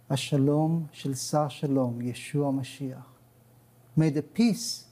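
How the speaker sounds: solemn blessing pronounced over the listeners; priestly blessing. Acted. Guest pronounces the Aaronic blessing over viewers, solemn prayer. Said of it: "reciting it in English and in Hebrew today?".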